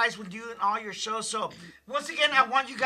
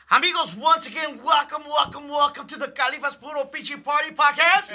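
excited welcome; 4 semitones higher, 5 dB louder than usual. Real, not acted. Host hype welcome.

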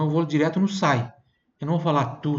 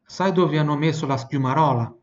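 model phrase for repeating. Shown as a demonstration. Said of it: "repita em voz alta depois de mim".

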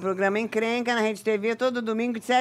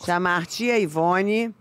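slowly; 3 semitones lower, slower than usual. Shown as a demonstration. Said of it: "Fala devagarinho".

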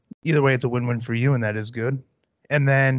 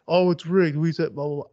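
mock whiny fan; 5 semitones higher than usual. Ranting host mocks fans complaining, mock whine. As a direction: sneer it like a sore loser parroting excuses.

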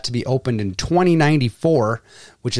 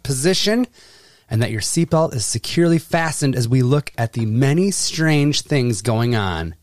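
flight attendant. Acted. Announcing like cabin crew.

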